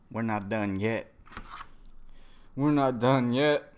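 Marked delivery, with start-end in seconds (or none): 2.6-3.7 louder, slow, firm delivery; emphatic mock defiance. Fighter telling his rival to keep going, loud defiance. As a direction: push each word out slowly and forcefully. Repeats the quote louder and slower.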